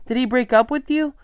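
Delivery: perplexed father. A narrator's reading. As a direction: ask in confusion. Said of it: "Charlie was perplexed".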